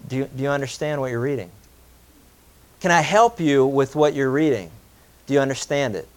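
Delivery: genuine concern. Retold or imitated. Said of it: "out of genuine concern".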